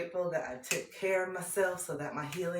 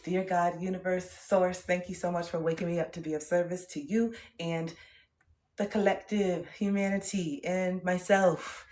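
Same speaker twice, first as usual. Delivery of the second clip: prayer; 2 semitones higher, 4 dB louder than usual. Retold or imitated. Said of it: "That's what I say".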